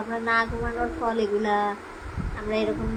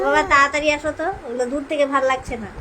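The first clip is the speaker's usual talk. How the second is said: put-on louder, quick babyish plea; lightly voiced baby; 3 semitones higher, 5 dB louder, faster than usual. Mother voicing baby, asking father to hurry home. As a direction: hurry daddy home, sweetly. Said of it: "বাবাকে বলো".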